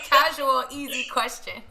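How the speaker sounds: high-pitched teasing through laughter; joking irony. Real, not acted. Host teasing guest about her big question, laughing irony. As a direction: laugh at your own heavy question.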